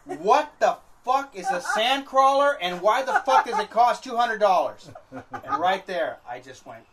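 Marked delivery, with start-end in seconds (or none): 0.0-4.9 a mock outraged wife, word by word; furious wife. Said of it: "her exact words were". 5.1-6.2 laughing. Real, not acted. Laughing at his own story.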